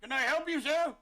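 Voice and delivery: high-pitched, affronted customer-service question; pointed politeness. Acted. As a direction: ask pointedly what this person wants. Acted NPC confronts the odd admirer.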